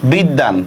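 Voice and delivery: "বিদ্যান" as bid-dan, দ held double; doubled consonant. Shown as a demonstration. Teacher shows learners the doubling, "বিদ্যান" as bid-dan. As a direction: say "বিদ্যান" with a long d and no y, low falling. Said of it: "এই দটা আমরা দুইবার উচ্চারণ করি কিনা?".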